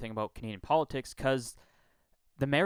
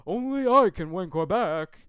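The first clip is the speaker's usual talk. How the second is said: higher, louder mocking put-on voice of a candidate; 6 semitones higher, 8 dB louder than usual. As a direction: sneer the slogan back in a silly voice. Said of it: "are you making this as an argument".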